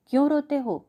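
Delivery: put-on high, loud snap at the kids; sharp shout. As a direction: shout over the crying children. Queen shouts at crying children. (ऊँची आवाज़ में डांटकर)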